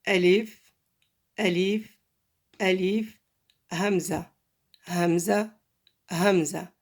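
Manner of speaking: ألف and همزة each said alone as a separate, careful model; letter-name demo. Shown as a demonstration. Teacher shows how the letters are pronounced, careful demo. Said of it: "on prononce comme ça les lettres".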